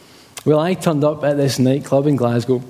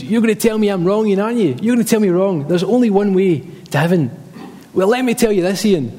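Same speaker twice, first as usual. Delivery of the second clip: imitated ranting dad in Glaswegian, pitched up; Glaswegian accent; 5 semitones higher than usual. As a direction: mimic a Glaswegian dad challenging you. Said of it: "In his best kind of Glaswegian accent".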